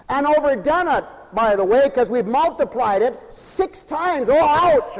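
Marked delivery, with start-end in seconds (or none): 4.3-5.0 mild pained yelp, pitched up; higher mock "ouch"; sluggard's mock yell. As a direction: lightly imitate a lazy sleeper's protest. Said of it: "I hear the sluggard yell".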